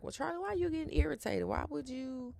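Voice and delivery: a teasing take on a prying therapist; mock therapist questioning. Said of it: "she was like".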